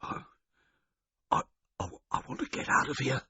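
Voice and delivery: hoarse half-whispered outburst; a feeble burst of anger; futile violence. Acted. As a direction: hungover man bursting out, weakly. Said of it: "with a spurt of futile violence".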